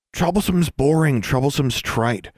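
mock her with a sing-song jab; cocky taunt. A narrator's reading. Larry's mocking rhyme.

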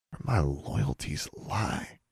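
soft, slow, stunned repeat; quiet disbelief. A narrator's reading. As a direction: echo it back quietly, in disbelief. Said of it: "he repeated, shaking his head".

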